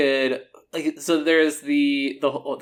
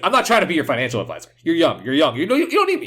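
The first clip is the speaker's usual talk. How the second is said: put-on Brooklyn accent; 4 semitones higher, faster than usual. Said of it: "saying this, all this heavy Brooklyn accent".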